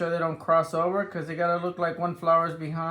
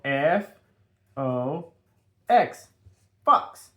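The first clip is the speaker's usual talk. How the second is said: spelling out letters; 4 semitones lower, slower than usual. Shown as a demonstration. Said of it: "we wanna learn how to spell it".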